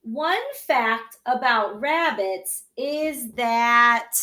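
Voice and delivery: slow, even reading of the whole phrase; slow read-along. Shown as a demonstration. Teacher rereads sentence for class, slow and even. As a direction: read it slowly so the kids can follow. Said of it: "So let's read it again".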